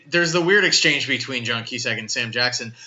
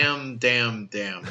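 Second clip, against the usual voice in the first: lightly voiced sulky teen; Holden Caulfield; 4 dB quieter, slower than usual. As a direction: mutter it like a jaded teen. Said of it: "here's my Holden Caulfield impression".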